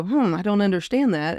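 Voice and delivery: musing hum, then mild curiosity; thoughtful and inquiring; curious puzzlement. Shown as a demonstration. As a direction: wonder aloud, open to exploring. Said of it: "explore it with a why".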